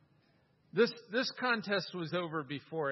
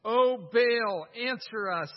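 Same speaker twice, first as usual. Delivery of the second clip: raised, louder cry to Baal; read as a shout; 4 semitones higher, 6 dB louder, slower than usual. A narrator's reading. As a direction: call out to the idol, pleading. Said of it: "they shouted".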